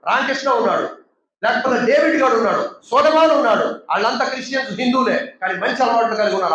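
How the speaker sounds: usual speaking voice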